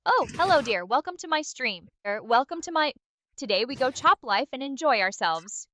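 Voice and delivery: badly faked Nigerian accent; a reluctant, hammy go at a Nigerian accent. Assistant obliging a chat request with a terrible Nigerian accent. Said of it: "can you do a Nigerian accent".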